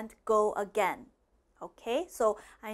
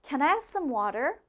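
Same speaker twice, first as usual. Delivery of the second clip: faster; 4 semitones higher than usual. Shown as a demonstration. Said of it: "A little bit faster".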